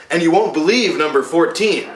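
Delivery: lightly hyped clickbait headline with a laugh; clickbait tease. Acted. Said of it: "my new clickbait monologue strategy".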